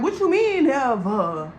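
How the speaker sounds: loud, incredulous "what you mean, never?"; shocked disbelief. Retold or imitated. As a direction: fire back in disbelief. Girls react in disbelief.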